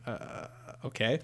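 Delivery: slow, soft, hesitant acceptance; retold stunned reply. He reacts to hearing she is pregnant, retold stunned reply. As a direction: draw it out quietly while still processing.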